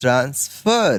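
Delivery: transfer with stress hitting the second syllable fer. Teaching English word stress in a Hindi lesson, stress on 'fer' of 'transfer'. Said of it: "तो फर पे दबाव जा रहा है".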